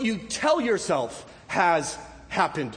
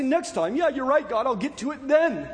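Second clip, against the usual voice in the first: lazy brush-off; 5 semitones higher than usual. Retold or imitated. Congregation's lazy reply mocked.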